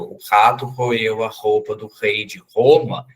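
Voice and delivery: rato roeu com R gutural, xato; o R de "rato" raspado no fundo da garganta como H; Portuguese R. Shown as a demonstration. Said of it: "no português a gente fala rato". (R inicial português)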